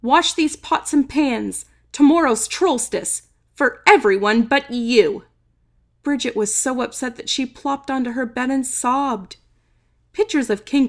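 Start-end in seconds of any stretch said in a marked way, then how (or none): 0.0-5.2 yelling Chef. Acted. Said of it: "Chef yelled at her".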